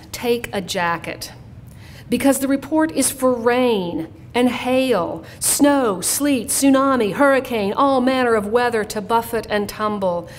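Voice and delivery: measured poem reading, building through the lists; poetry reading. Real, not acted. Parent's poem urging a son to dress warm, poetry reading. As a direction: recite it as a poem, phrase by phrase. Reads second poem aloud.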